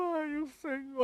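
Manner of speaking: high, hushed, barely audible fake crying. Speaker criticizing preachers who fake crying at the pulpit, imitating fake preacher crying. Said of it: "imitando choro no púlpito".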